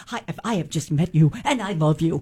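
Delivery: animated talking dog voice. Speaker imagining what any dog says, in a Dug from Up voice. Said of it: "any dog sounds like Doug from Up".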